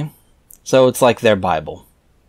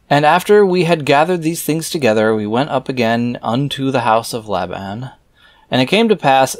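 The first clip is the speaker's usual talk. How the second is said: raised, measured reading voice; scripture reading; 3 semitones higher than usual. Acted. Reader reciting scripture verses aloud in a solemn reading voice. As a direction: read the old verses out with solemn weight.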